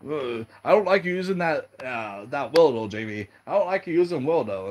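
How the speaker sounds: high-pitched imitation of tearful complaining; mock crying whine. Lauren complains to Jamie about Wildo, mock tearful. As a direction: whinge it like a hammed-up crybaby. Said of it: "He starts screaming and crying like".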